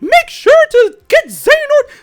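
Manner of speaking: loud, very high falsetto mouse voice; Mickey. Shown as a demonstration. Cartoon mouse warning boys about darkness, shrieking falsetto. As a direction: push the voice up to a cartoon squeal. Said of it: "my rendition of Mickey".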